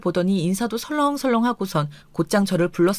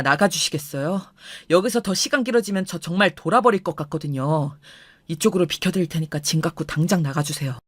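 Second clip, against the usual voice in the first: cold anger; 4 semitones lower than usual. Retold or imitated. Husband throwing in-laws out.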